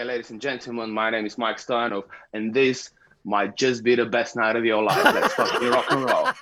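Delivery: big rock show intro; stage announcer intro. Shown as a demonstration. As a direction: hype up the crowd like a frontman. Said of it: "I'll say it before I go on".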